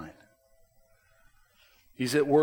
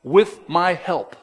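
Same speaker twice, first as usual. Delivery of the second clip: reassuring voice of God; 4 semitones higher than usual. Retold or imitated. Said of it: "He's saying".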